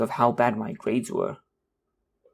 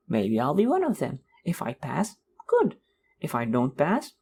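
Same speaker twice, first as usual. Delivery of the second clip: breezy self-talk. Retold or imitated. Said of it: "kept telling myself".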